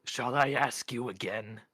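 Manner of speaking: loud, commanding interruption; forceful threat in question form; stern demand. A narrator's reading. Mort sternly orders Isabel out.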